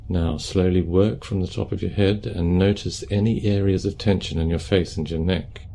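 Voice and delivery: calm, unhurried meditation guidance; guided meditation. Acted. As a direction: guide them gently through posture and breath, leaving space.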